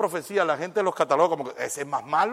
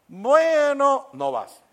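put-on higher, louder complaining teenager; whiny teen; 8 semitones higher, 8 dB louder, slower than usual. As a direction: protest like a kid caught out. Teen complaining to prophet parent. (hijo quejándose, más agudo y fuerte)

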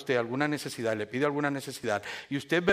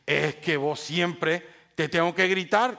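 drawn-out mock accusation; immature blaming retort; slower than usual. Wife blames husband for her yelling, acted defensive retort. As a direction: hit back defensively, stretching the words. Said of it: "¿Quién está siendo inmadura?".

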